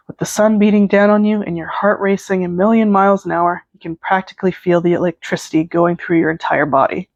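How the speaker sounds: measured second-person storytelling; story narration. A narrator's reading. Narrator setting up a concert fan fiction, story narration. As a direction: read it out like a story.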